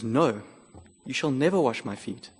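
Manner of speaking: lightly acted, blurting out a refusal; impetuous refusal. Peter refusing Jesus, mildly acted impetuous no. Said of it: "one of the most impetuous".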